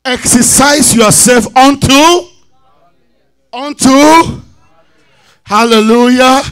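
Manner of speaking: loud, emphatic scripture proclamation; call-and-response preaching. Acted. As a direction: call out each phrase for the congregation to repeat. Preaches scripture, calling for repeats.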